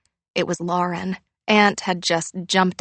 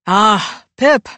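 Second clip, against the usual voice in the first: bright greeting; 2 semitones higher, 9 dB louder than usual. A narrator's reading. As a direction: greet her brightly, lifting up. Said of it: "he said brightly".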